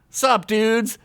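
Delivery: casual high greeting; acting cool. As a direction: play it cool. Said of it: "trying to act cool".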